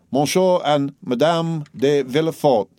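slow, high announcement of the guests; announcing cry. A narrator's reading. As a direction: call the names out to the room. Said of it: "cried Baptistine".

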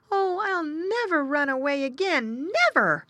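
high-pitched wail of a sorry piglet; regretful little pig. A narrator's reading. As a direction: vow it miserably as a lost little pig. Lost piglet regrets running away.

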